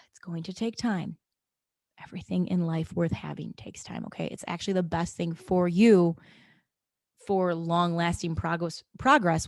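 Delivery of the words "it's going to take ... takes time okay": sighed out softly; calm after a deep breath. Shown as a demonstration. Podcaster calming listeners after a deep breath, gentle reassurance. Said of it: "Deep breath, okay?".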